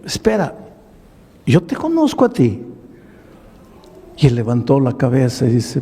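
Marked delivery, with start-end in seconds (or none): 0.1-2.6 surprised recognition. Retold or imitated. Pastor recognises the man.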